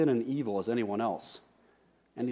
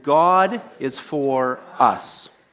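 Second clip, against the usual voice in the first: slow and louder, "us" stressed; 7 dB louder, much slower than usual. Shown as a demonstration. Pastor leading the congregation, slow loud stress on "us". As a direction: lean into "us" at the end. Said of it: "put the stress on each word".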